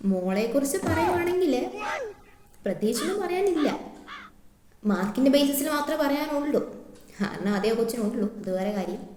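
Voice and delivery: lightly acted complaining teacher, voice rising; a hint of a scolding schoolteacher; typical class teacher. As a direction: take a parent to task about poor marks. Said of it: "That typical class teacher".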